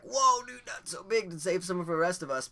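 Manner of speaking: hammed-up buddy telling him off; mock scolding friend. Friend scolds big hit.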